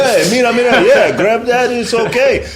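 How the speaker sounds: high, loud friendly Spanish-flavored greeting; a welcoming old Spanish man waving you in; old Spanish guy. Retold or imitated. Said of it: "They're like".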